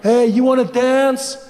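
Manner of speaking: drawn-out creepy come-on; creepy guy. Acted. Creepy guy approaching woman at the bar, sleazy drawl. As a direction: slide in slowly like a club creep. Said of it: "That creepy guy comes up".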